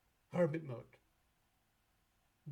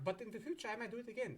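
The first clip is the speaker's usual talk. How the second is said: higher, hopeful little voice of a hopeful client; pleading client; 6 semitones higher, faster than usual. Pretend. Client talking back to Saturn, hopeful and high. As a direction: ask it hopefully, pitched up. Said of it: "And you're like".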